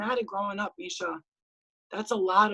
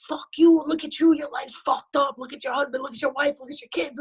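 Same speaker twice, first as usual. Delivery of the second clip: imagined outburst; 4 semitones higher, 4 dB louder than usual. Retold or imitated. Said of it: "I could be like".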